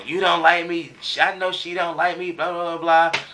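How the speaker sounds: imitating her yelling she isn't liked; retold angry outburst.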